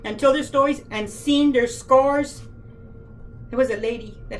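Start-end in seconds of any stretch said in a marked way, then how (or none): 0.0-2.4 holding back real tears, last words dragged out; choked up and slowing down; getting emotional. Real, not acted. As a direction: voice catching, slowing to a near halt at the end. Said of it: "I'm sorry to get emotional".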